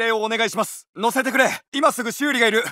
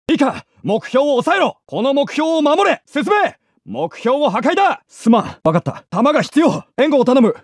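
squad orders given louder; louder take of the battle barks; louder callouts; 5 dB louder than usual. Acted. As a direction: call orders over the noise.

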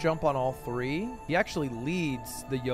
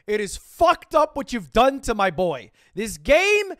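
calm turning angry; 6 semitones higher, 5 dB louder than usual. Pretend. Mock delegation speech gets heated.

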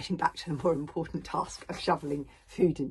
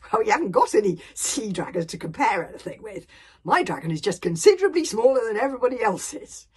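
loud, higher exasperated lad; aggrieved boy Hiccup; 6 semitones higher, 14 dB louder than usual. Acted. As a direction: protest loudly about your tiny dragon.

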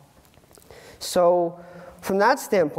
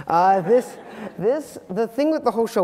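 laughing; 5 semitones higher, 3 dB louder than usual. Real, not acted. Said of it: "I didn't think that was gonna be funny".

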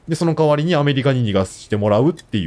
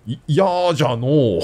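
put-on creaky wise old man; 2 semitones higher than usual. Old-man dialect remark. (年寄りっぽくゆっくり)

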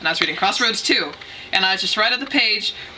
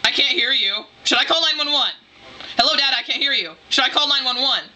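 higher, insistent questions, reenacted; mildly acted panic, pitch lifted; retold freak-out; 5 semitones higher than usual. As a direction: replay a panicky, deafened repetition. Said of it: "freaking out".

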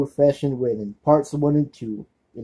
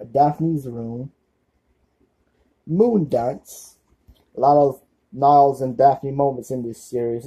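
amateur attempt at a Mid-Atlantic accent, lightly held. Fan listing Frasier episodes for viewers in a hint of a Mid-Atlantic accent. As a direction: put on a bit of an old-Hollywood Mid-Atlantic accent. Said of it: "I'm gonna do this in a Mid-Atlantic accent".

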